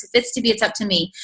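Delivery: "If it's to be, it's up to me" rattled off fast; rattled-off motto. Shown as a demonstration. Speaker repeats her theme song quickly, fast. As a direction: rush the whole motto out in one breath. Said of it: "that's been my theme song".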